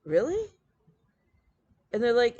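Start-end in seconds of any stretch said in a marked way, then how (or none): 0.0-0.5 surprised. Retold or imitated. Friends react to the retold pattern.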